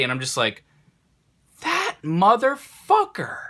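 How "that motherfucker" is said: slow bitter curse. Retold or imitated. Realizes friend stole his cards.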